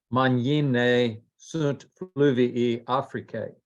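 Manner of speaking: slow, word-by-word Latin; careful Latin reading. Shown as a demonstration. Student to teacher, reading the Latin line carefully and slowly. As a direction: sound out the Latin unsure of each word. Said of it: "I hope I'm saying this right".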